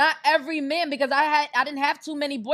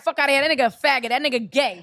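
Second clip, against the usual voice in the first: louder, scoffing homeboy brushing it off; louder dismissive homeboy; 5 dB louder, faster than usual. Retold or imitated. Friends mocking the man, louder and scoffing. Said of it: "They be like".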